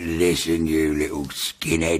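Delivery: low, slow menacing voice; menacing threat. Retold or imitated. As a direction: threaten him slowly from the cell. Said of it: "He went".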